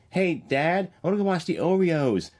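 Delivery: put-on high, childlike Baltimore accent, Oreos for Orioles. Child home from school asking dad, in a Baltimore accent. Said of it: "come home and say".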